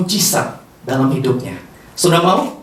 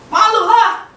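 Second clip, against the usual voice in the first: embarrassed protest; 13 semitones higher, 4 dB louder, slower than usual. Acted. Acting out an embarrassed person.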